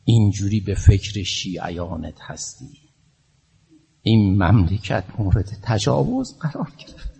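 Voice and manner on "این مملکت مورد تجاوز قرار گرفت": hushed whispered line. Real, not acted. Preacher whispering a grave lament. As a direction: breathe it out in a whisper. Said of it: "whispered line".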